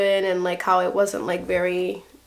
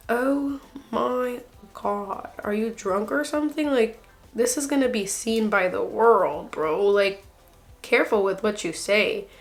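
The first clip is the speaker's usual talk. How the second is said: incredulous; 4 dB quieter than usual. Pretend. Talking to contestant in disbelief.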